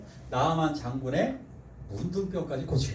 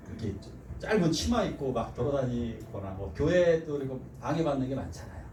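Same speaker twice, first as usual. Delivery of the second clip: normal talking voice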